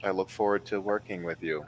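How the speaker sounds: flat, emotionless greeting; deadpan. Acted. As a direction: say it with zero feeling. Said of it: "in that just deadpan, no emotion".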